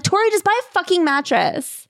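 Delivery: high, exasperated outburst. Acted. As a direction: plead in high-pitched exasperation. Exasperated plea to Tori.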